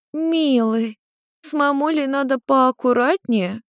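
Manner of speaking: high, sulky tipsy mother voice; offended drunk mother. Acted. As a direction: pout at your son like a tipsy mum. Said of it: "обиженно буркнула блондинка".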